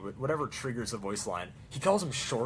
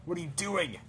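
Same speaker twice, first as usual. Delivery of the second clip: mock protest; 3 semitones higher than usual. Mock photographer protesting the engineer pose. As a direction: play the photographer scolding. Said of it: "It's like".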